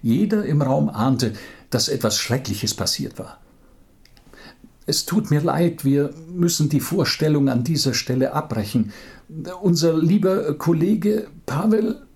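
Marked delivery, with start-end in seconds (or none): 4.9-12.1 higher voice, close to tears; holding back tears. Acted. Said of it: "verschlug es die Stimme". (mit den Tränen kämpfend)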